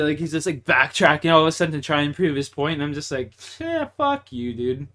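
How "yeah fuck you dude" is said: retold snap. Retelling telling him off.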